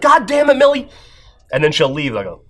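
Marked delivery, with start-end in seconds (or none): 0.0-0.9 high, hammed-up exasperated cry; mock exasperation. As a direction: play the fed-up dad scolding his daughter. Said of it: "I'll be like this".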